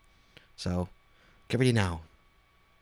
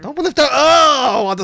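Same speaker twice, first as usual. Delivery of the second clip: startled yelp, higher and louder; real surprise; 13 semitones higher, 10 dB louder, slower than usual. Real, not acted. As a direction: caught off guard, blurting it out. Friend suddenly shows chest hair.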